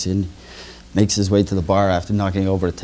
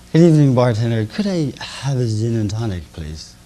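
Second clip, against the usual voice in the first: put-on drunk overly polite. Drunk orders again, overly polite.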